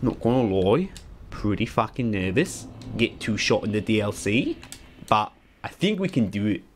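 put-on Australian twang, rising at phrase ends; half-hearted Aussie accent drifting off; bad Aussie accent. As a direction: do a shoddy Australian impression. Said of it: "doing this shit Aussie impression".

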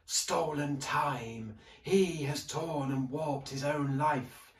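slow, solemn ghostly judge; grave librarian voice. A narrator's reading. Hooded librarian judging Sharp's life, slow solemn voice. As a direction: pronounce his crimes gravely.

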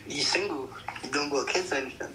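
ordinary delivery

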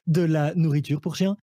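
high, fast shopping-channel pitch; infomercial host. Acted. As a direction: hype the discount like a TV deal. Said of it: "je serai à la manière d'un téléachat". (animateur de téléachat survolté)

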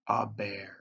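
barely voiced, as if afraid to be heard; awed whisper. A narrator's reading. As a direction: breathe it out in a frightened whisper. Sudden sight of a bear.

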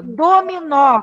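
dominó drawn out, syllables spaced; slow dictation. Shown as a demonstration. Teacher dictates the next word to the class, drawn out. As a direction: give dominó slowly for the pupils. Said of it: "Qual é a sílaba mais forte?".

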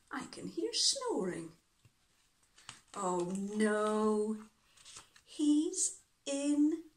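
puzzled storyteller with lifted questions; children's story reading. Acted. Reading children the hunt for sleeping zebra, animated storytelling. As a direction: act out the search with suspenseful pauses.

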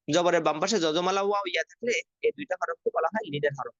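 teacher reciting the rule for students to memorise; recited rule. Shown as a demonstration. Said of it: "তো শুধু একটু এখন মনে রাখেন". (মুখস্থ করানোর ভঙ্গিতে নিয়ম আবৃত্তি)

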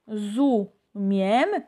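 "rozumiem" slowly, with a clear trilled r; slow Polish demo. Shown as a demonstration. Teacher showing students how the r vibrates, slowly. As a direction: draw out "rozumiem", rolling the r. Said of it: "sonido R que está muy importante".

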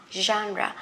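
"genre" with a quick ah, not held long; short A vowel. Shown as a demonstration. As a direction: say "genre" as a quick ZHAN-ruh. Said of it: "Nó cũng không phải là chữ A dài lắm".

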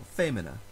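"femina" with weight on FE; stress on first syllable. Shown as a demonstration. Teacher correcting the rule's wording, first-syllable stress. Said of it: "it moves back to the previous syllable".

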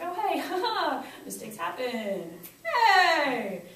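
high, drawn-out easygoing cheer; relaxed and goofy. Acted. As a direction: shrug off a mistake with a laugh. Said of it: "makes your face kind of relaxed".

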